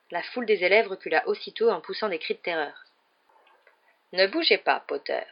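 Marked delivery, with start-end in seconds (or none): 4.1-5.2 calm order. A narrator's reading. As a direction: tell him calmly to keep still. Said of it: "dit tranquillement Rogue". (ordre donné tranquillement)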